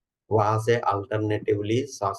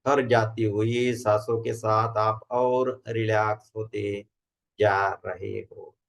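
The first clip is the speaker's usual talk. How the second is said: measured instructions with long pauses between phrases; guided meditation. Acted. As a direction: guide a group into relaxation, unhurried.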